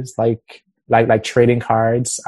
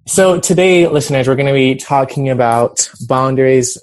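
host voice for listeners; radio voice; 4 dB louder than usual. Shown as a demonstration. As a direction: open it like a radio show. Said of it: "I'm trying out my, like, radio voice".

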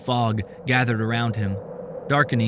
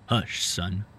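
whispered; 3 semitones lower, 5 dB quieter than usual. A narrator's reading. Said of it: "whispered directly into his ear".

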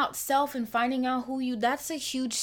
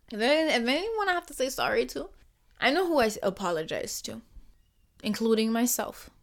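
ordinary delivery

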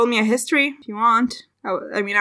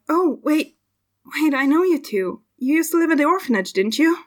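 sudden recognition; 5 semitones higher than usual. Acted. Woman suddenly recognizes two old acquaintances.

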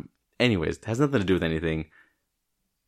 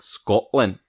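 put-on showman's Scottish accent; 3 semitones higher than usual. Podcaster imagining a stadium of fans, Scottish accent. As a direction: announce it proudly in put-on Scottish. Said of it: "I'm just like".

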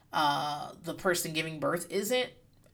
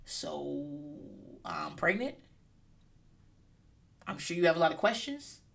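quiet awkward announcement; 3 semitones lower, 7 dB quieter than usual. Retold or imitated. Dream podcast announcement.

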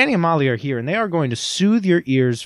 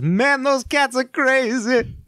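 mock gruff dude; 9 semitones higher, much slower than usual. Retold lyric line in put-on voice.

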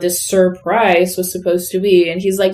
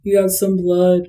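weird detached. Retold or imitated. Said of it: "such a weird and detached".

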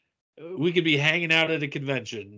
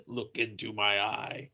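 slow quoted line; 4 semitones lower, 7 dB quieter, slower than usual. Retold or imitated. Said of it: "aliens quote".

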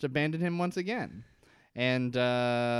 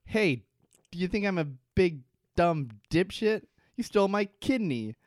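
higher, louder, mocking fury; indignant rant; 5 semitones higher, 4 dB louder than usual. Locke tells his kidney-stealing dad off, higher and louder. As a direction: tell him off, he's no dupe.

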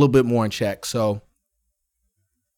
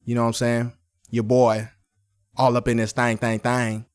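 velvet voice. Acted. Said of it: "the buttery, velvety voice".

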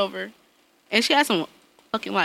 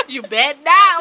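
loud sudden warning, raised pitch; mom's sudden warning; 5 semitones higher, 7 dB louder than usual. Retold or imitated. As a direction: cut the kid off sharply. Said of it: "she just come out of nowhere".

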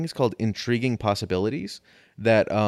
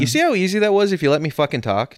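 triumphant and loud; 8 semitones higher, 5 dB louder than usual. Real, not acted. Gloating after finishing topic.

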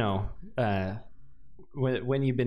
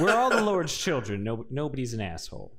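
put-on Southern clergyman accent sliding down; progressive Texas accent. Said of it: "I love the progressive accent".

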